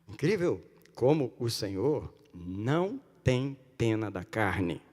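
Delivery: ordinary talk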